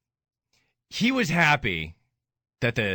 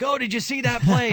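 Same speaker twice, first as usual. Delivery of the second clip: imitating his dad; 10 semitones higher, 3 dB louder than usual. Voicing his late dad on phone.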